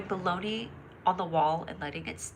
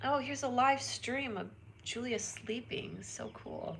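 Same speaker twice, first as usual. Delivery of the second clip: unvoiced hushed whisper; 3 semitones higher, 8 dB quieter than usual. Streamer imagining a stream of herself sleeping, whispering. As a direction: whisper so the sleeper stays asleep.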